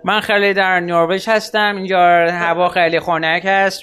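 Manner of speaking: mild mock of a Persian podcaster with a put-on foreign accent; show-off expat accent from Norway; lightly hammed-up expat accent; pretentious expat accent. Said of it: "با لهجه صحبت کنیم".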